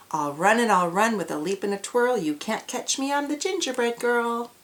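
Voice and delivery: loud, teasing call. Acted. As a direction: call back to the farmers. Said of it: "She laughed and called".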